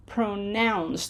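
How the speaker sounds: "Pronounce" as two units, pro-nounce, full vowel in "pro"; measured teacher's pro-nounce; broken into syllables. Shown as a demonstration. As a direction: sound out "Pronounce" in two clear beats. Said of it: "pronounce the syllables as a unit".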